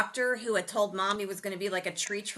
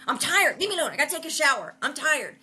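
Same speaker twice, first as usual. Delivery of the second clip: higher, whiny mock complaint; tired Ralph; 5 semitones higher, 3 dB louder than usual. Exhausted uncle brushing off nephew, whiny mock complaint. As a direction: play the worn-out uncle grumbling. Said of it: "Ralph's like".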